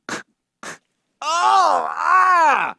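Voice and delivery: sudden high, loud mock battle shout; ambush yell. Dropping from the ceiling onto cops with a pretend war cry. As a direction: pounce on them with a wild yell.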